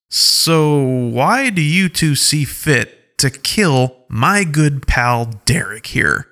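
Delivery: accusing wolf leader. Acted. Alpha Paw demanding why they killed Derek, pointedly. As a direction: lean on each word to accuse them.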